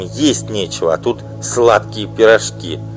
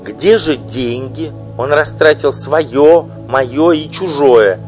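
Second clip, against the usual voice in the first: loud, high desperate begging; pleading wife; 8 semitones higher, 8 dB louder than usual. Acted. Wife imploring the singer, desperate loud pleading. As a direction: beg her with all her strength.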